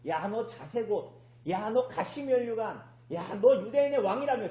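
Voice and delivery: mock jeering at a prisoner. Soldiers taunting Jesus as king, mocking. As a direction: act out a taunt, each jab set off by "야". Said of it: "예수님을 조롱하는 거예요".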